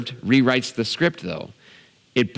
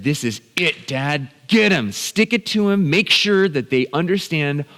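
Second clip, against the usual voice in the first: higher, insistent egging-on; urging dad on; 4 semitones higher than usual. Retold or imitated. Son silently begging dad to get the offender back, urgent urging. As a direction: goad him to take revenge. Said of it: "everything inside of me said".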